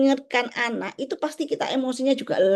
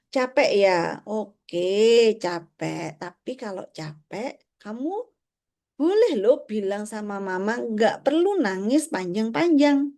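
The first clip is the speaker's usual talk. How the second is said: gentle reassuring; slower than usual. Acted. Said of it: "lembut tadi itu".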